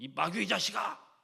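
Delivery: put-on thundering, forceful voice. You retell how Paul rebuked the shaman-like person beside him, acting out a forceful, thundering rebuke. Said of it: "강하게 이야기하는 거예요 / 아주 호통을 치는 겁니다".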